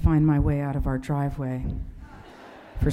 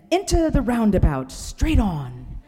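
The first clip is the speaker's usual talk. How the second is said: put-on New Zealand accent; 4 semitones higher, 4 dB louder than usual. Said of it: "speaks with a New Zealand accent".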